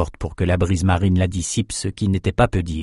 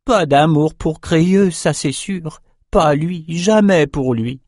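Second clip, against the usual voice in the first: higher, slow, strange confiding little voice; creepy whisper of a runt; 7 semitones higher, slower than usual. A narrator's reading. The runt confides to Bannon, slow and eerie. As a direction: lean in and share it like a secret. Runt shaman talks of himself.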